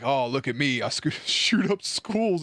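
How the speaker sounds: mocking take on an American accent; hammed-up American accent as a taunt. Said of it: "when people do American accents".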